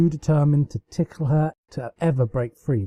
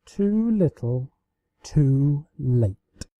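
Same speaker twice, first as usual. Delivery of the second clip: teasing; much slower than usual. Acted. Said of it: "Celestia teased her".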